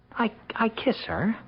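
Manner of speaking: barely whispered, too shy to say it aloud; husband confessing bedroom habits to his doctor, in an embarrassed whisper. Acted. Whisper it, mortified.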